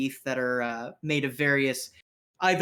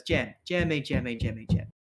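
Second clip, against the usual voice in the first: placating street rogue. Acted. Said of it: "He goes".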